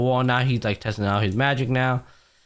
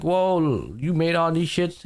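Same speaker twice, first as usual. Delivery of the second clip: higher-pitched retold amazement; mock surprise; 6 semitones higher, slower than usual. Editor reacting to all the stuff he made, mock surprise. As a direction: act out his surprise, pitched up. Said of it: "And he's just surprised".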